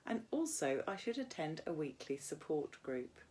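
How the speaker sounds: steady, clear read-aloud; measured classroom reading voice; story narration. A narrator's reading. Teacher reads novel aloud to class.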